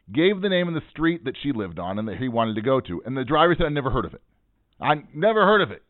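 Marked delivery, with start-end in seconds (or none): 4.8-5.8 imitated yell. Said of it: "he yells".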